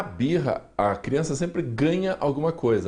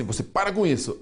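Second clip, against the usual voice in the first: higher, sharp mock reprimand; impatient parent scolding; 6 semitones higher, faster than usual. Psychologist showing the wrong way a parent hushes a crying child, mild mock scold. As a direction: bark it like an annoyed parent, lightly acted. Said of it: "E aí a gente fala assim".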